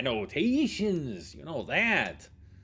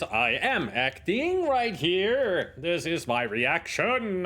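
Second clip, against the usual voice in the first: slow, overacted line reading, slightly raised; hammed-up stiff actor, drawn out; mock bad actor; 3 semitones higher, slower than usual. Streamer mocking the game's actor, in a slow hammy voice. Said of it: "it would be like this".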